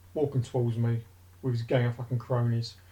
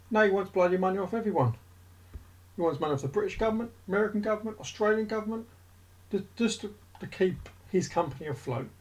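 higher-pitched heated rant at a tycoon; 5 semitones higher than usual. Real, not acted. Vlogger ranting at Richard Branson, heated and higher. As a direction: get worked up, voice climbing as you vent. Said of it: "that's my rant done".

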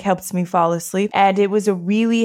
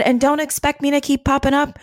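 higher, firm lecturing; stern sister; 5 semitones higher than usual. Retold or imitated. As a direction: set the rules with a raised voice. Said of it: "she said".

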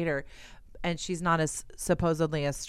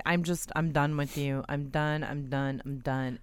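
fed-up fading; 3 semitones lower, 5 dB quieter than usual. Retold or imitated. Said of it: "I was just like".

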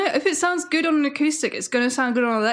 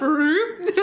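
comedy fart sound; 3 semitones higher than usual. Pretend. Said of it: "do some comedy fart sounds".

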